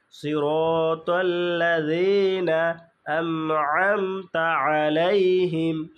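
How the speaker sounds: slow, measured Quran reading with long vowels; tajweed recitation. Shown as a demonstration. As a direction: draw out each syllable as a model reading. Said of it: "তাহলে যদি আমরা একবার পড়ি". (তাজবিদসহ ধীরে তিলাওয়াত)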